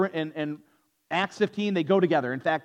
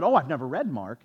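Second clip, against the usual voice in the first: feigned innocent ignorance, understated; retold mock-innocent remark; mildly sarcastic; 3 semitones lower than usual. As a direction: play dumb to needle her. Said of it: "I was being a little sarcastic".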